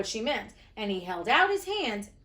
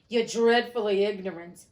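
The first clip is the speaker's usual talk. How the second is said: scolding Wendy; 5 dB louder than usual. A narrator's reading.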